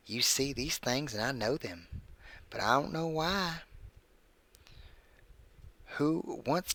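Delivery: creepy story read in a put-on voice; measured narration with swooping pitch and pauses; Burt's Bees. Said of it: "I'm reading this in my Burt's Bees voice".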